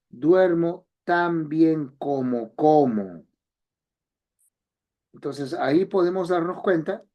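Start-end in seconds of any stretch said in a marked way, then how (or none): 0.1-3.3 Duermo tan bien como como, said slowly, the second como stressed; slow it down so both como are heard apart; slow contrastive example. Shown as a demonstration. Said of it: "función contrastiva entre palabras". (ejemplo lento, contraste entre los dos como)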